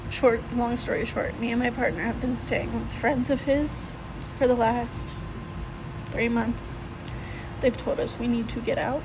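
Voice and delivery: shaky, worn-out voice after crying. Real, not acted. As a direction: talk through the tail end of tears. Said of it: "sorry, I've been crying and I'm trying to get my emotions out".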